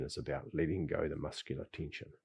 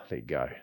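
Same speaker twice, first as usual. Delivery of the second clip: sigh and let go; 6 semitones lower than usual. Shown as a demonstration. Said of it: "I also got to think of".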